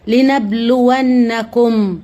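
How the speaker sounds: slow, drawn-out recitation of لنبلونكم; slow Quranic recitation. Acted. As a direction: chant the verse slowly, each syllable stretched. Reciting Quran verse in stream.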